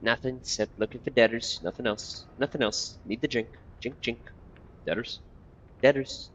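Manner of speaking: lightly voiced muttering old beggar; twitchy beggar. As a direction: mutter like a half-mad corpse picker.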